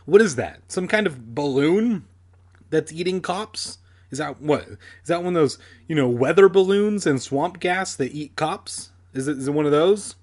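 lightly acted incredulous boy; mocking disbelief. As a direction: scoff at it, piling up questions.

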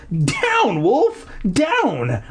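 high-pitched call to a dog; sharp rise in pitch, calling the dog off; crying out. Acted. Narrator to the leaping dog, crying out high. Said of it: "I cried".

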